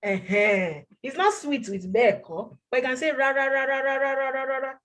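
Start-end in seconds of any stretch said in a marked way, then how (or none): 3.1-4.7 "ra, ra, ra" in a long chain on one level tone; emphatic repetition. Shown as a demonstration. Teacher showing what to say for strong refusal, emphatic repetition. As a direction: keep ra, ra, ra going evenly without a break. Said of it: "to make you emphasize on the word".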